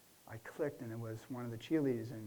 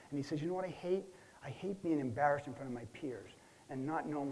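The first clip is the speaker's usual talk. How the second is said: retold angry boss; 2 semitones higher than usual. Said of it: "he starts screaming at me".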